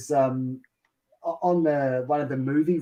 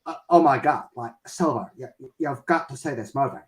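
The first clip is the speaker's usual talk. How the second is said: put-on Valley Girl. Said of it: "they were saying to me".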